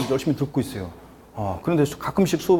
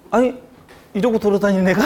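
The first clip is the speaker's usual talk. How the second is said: higher-pitched, retold incredulous question; mild mock disbelief; 5 semitones higher, 3 dB louder than usual. Lecturer retells hearing the odd student came first, mildly incredulous. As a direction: lightly act out being taken aback.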